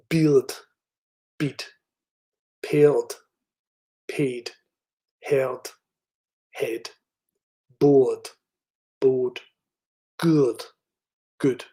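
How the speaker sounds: "fear" with a very weak R against "fee"; working-class Scottish minimal pairs, R barely there; vernacular Scottish accent. Shown as a demonstration. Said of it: "impersonated by me to show".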